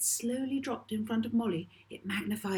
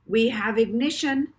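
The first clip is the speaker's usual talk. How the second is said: eager raised voice, calling it out; excited pilot; 4 semitones higher, 7 dB louder than usual. Acted. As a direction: announce ignition with a thrill. Pilot announces ignition.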